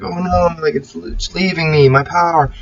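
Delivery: a lightly played hero losing his strength; mock panic. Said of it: "I was like".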